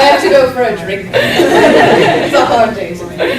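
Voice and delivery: mock despair. Joking mock grief, laughing.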